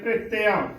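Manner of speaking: ਪ੍ਰਿਤਿਆ with the r run into the p; quick half r. Shown as a demonstration. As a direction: say ਪ੍ਰਿਤਿਆ as "pre-teaa", r barely separate. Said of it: "ਉਚਾਰਨ ਕਰਨਾ ਹੈ".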